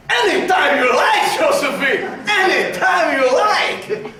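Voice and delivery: laughing, shouted eager welcome. Acted. Napoleon welcoming Josephine, shouting eagerly with laughter. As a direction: call out keen and delighted. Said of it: "But it would have been more like".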